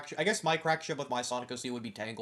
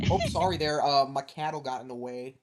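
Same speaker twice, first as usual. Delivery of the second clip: put-on Midwest accent. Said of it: "Jet ... with a Midwest accent".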